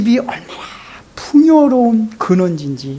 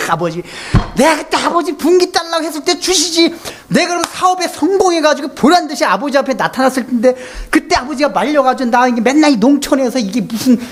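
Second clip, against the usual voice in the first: higher, whiny complaint with a laugh; resentful son complaining; 6 semitones higher than usual. Retold or imitated. Preacher acting the grown son blaming his father, whiny and laughing. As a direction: grumble at dad, half laughing.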